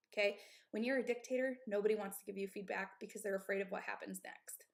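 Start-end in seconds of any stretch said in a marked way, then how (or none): 1.7-4.6 breathless, airy voice; winded after a rant; out of breath. Real, not acted. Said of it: "I'm, like, out of breath".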